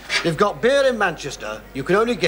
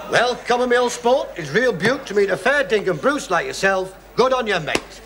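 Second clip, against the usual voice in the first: hammed-up Aussie slang greeting; mock Australian accent; 4 semitones higher than usual. New drinking mate greets an Aussie, mock Australian accent. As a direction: lay on a stage Australian accent. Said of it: "We don't talk like that here in Australia".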